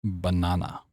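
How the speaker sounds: soft, intimate ASMR words. Shown as a demonstration. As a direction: breathe each word close and slow. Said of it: "Can I do it for you?".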